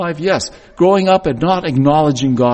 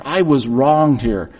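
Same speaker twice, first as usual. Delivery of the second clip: sulky grievance; 2 semitones lower, slower than usual. Retold or imitated. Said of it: "He's nursing that anger".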